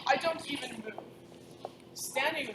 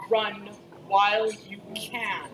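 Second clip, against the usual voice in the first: projected command; slower than usual. Acted. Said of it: "in the top of my voice ... the most projection".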